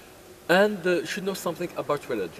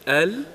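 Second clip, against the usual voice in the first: Al said alone, loud and separate; syllable by syllable; 5 semitones higher, 9 dB louder than usual. Shown as a demonstration. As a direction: teach the word one syllable at a time. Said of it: "syllable by syllable".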